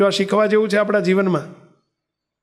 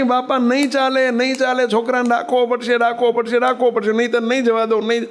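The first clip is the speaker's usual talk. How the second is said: higher, insistent, repeated demand; stubborn insistence; 4 semitones higher than usual. Retold or imitated. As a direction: dig in your heels and refuse to budge. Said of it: "ડોસી હઠ કરી". (હઠીલો, જિદ્દી અવાજ)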